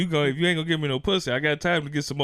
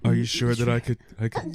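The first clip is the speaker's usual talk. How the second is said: nerdy; 6 semitones lower than usual. Retold or imitated. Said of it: "now you sound like a nerd".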